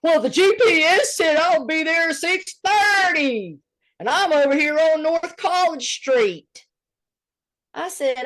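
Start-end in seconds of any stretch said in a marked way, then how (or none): 0.0-6.6 mocking Mark. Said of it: "Dare she say too much?".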